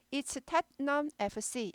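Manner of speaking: It's Tottenham 에프 씨 read slowly and clearly; slow careful model reading; slow model sentence. Shown as a demonstration. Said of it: "이렇게 되는 거죠".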